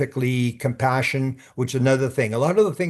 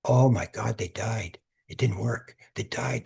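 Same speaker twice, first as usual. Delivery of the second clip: soft, sinking disbelief as they die; dismayed hush; 4 dB quieter than usual. Retold or imitated. Telling of a death at a bedside, hushed and stunned. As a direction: let the voice drop away, stunned. Realizing the person has died.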